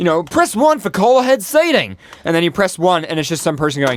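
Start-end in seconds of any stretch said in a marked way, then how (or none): 0.2-1.9 bad put-on Australian accent, high and slow. Imitating a restaurant phone tree greeting: really bad Australian accent. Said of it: "really bad Australian accent".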